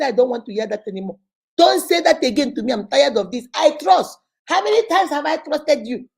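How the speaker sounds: loud, heated complaint to God; angry at God. Retold or imitated. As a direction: push back hard and loud, fed up. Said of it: "I was angry".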